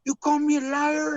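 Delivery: high-pitched imitated Hispanic accent, indignant; mock Hispanic accent. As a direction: challenge him in a high, put-on Hispanic accent. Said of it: "barely speaks any English".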